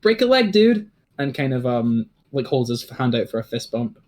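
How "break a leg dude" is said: higher, louder, easy-going cheer; laid-back surfer dude. Acted. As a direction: cheer them on like a chill surfer. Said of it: "and is like".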